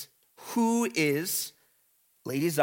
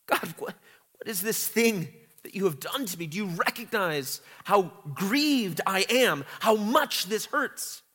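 crying out to God; 3 semitones higher than usual. Retold or imitated. Teacher voicing Zion's grieved plea to God. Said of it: "a crying out to God".

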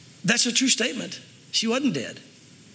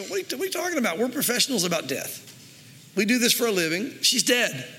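mildly mocking disbelief; 3 semitones higher than usual. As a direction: act out lightly scoffing professional mourners. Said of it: "And they're mocking him".

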